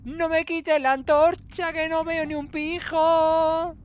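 high, slow whiny plea; high pleading whine. Acted. Gamer begging the character to keep the torch, high slow whine.

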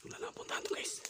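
hushed whisper to viewers. Real, not acted. Whispering to viewers in a haunted house. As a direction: whisper so nothing hears you.

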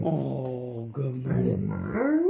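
soft greeting. Real, not acted. Greeting sleepy dog softly.

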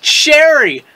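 high, delighted exclaim; sudden realization. Real, not acted. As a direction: blurt it as it clicks. Realizing the name is a pun.

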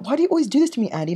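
hammed-up lament at Andy. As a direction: whine like a jilted lover. Mock rejected suitor.

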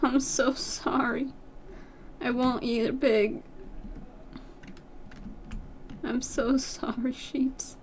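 soft, slow regretful apology; guilty tender sorry; mock-sorry apology. Real, not acted. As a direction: whisper an apology to the sheep. Apologising before killing sheep.

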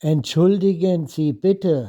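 Entschuldigen Sie said in a native German accent. Shown as a demonstration. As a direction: read it like a German speaker. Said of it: "สำเนียงของชาวเยอรมันแท้ๆ".

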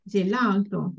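"gelato" stressed on the middle A. Shown as a demonstration. Teacher showing where the accent falls, stress on A in "gelato". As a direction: lean on the A in "gelato". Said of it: "is on the A".

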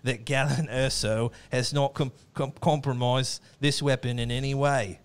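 put-on Australian accent. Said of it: "felt Australian".

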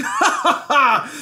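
high, loud royal cackle; big gleeful ha-ha-ha; laughing. A narrator's reading. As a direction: laugh triumphantly as the scheming king. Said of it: "he began laughing".

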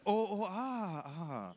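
drawn-out sarcastic "oh" of understanding; mock dawning realization. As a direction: pretend the penny finally drops. Feigns sudden understanding after slow repeat.

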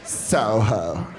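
lightly voiced alien bimbo gibberish; ditzy alien babble, slow and lazy; Jabba the Hutt bimbo voice. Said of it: "me doing Jabba the Hutt in a bimbo voice".

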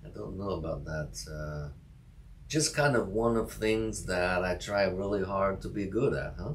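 playful mock Russian accent. Cohost answering a compliment, in a mock Russian accent. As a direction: keep the joke Russian accent going. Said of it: "you do Russian accent better than I do".

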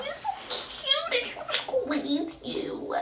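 high, soft cooing voice. Real, not acted. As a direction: coo over a cute puppy. Cooing over her pet.

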